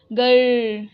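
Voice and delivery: a loud rumbling lion growl. Acted. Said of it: "फिर गुर्राया".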